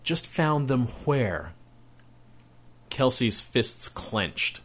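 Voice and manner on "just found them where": slow, stern question; mother questioning her son, slow and stern. Acted. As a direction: press him for the truth. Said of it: "A measure of sternness returned".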